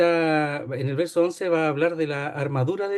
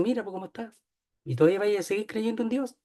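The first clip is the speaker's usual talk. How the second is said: higher, softer sneering whisper of the devil; devil's voice; 5 semitones higher, 4 dB quieter, faster than usual. Acted. The devil sneering at a believer, higher and soft. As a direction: needle him quietly, a hint of devil. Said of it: "pero dice".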